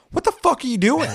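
high, loud disbelieving shout; incredulous yell. Retold or imitated. Gamer yelling at reckless Jeep drivers, incredulous and high. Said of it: "I'm like".

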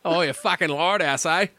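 half-hearted Australian attempt; unsure, jokey Australian; Australian accent. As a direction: try a mild mock Aussie accent. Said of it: "in the Australian accent".

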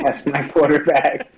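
laughing imitation of a weepy quote; mock crying. Co-host echoing Terrell Owens crying, slow mock sob. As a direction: drag it out, badly faked crying. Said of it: "crying, saying".

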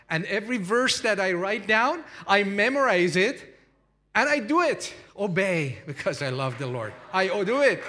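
loud, high, fervent quoting of the woman; imitating a zealous new believer; fervent vow. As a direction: declare it with rising fervour.

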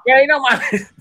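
high-pitched mock annoyance; disbelieving ex. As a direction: imitate someone dismissing a prank call. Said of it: "Sandra, que era mi ex". (incredulidad aguda, imitando a la ex)

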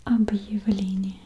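объявление with a clear break before я; with the hard sign. Shown as a demonstration. Showing the correct version, whispered. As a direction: mark the separation in объявление after б. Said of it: "it sounds".

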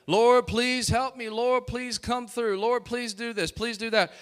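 pleading prayer. Retold or imitated. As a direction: mimic a desperate prayer. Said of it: "Moses is crying out to God in prayer".

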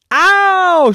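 high, loud yelp of pain; cat's ow. Acted. Cat Purdy stung by the bee, high yelp. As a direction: squeal it out, stung. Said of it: "she said".

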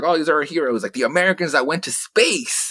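high, hammed-up cheer for the returning heroes; mock patriotic gushing; mock parade cheer. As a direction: gush like a corny parade announcer.

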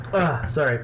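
just after a choking cough. Real, not acted. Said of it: "I'm choking".

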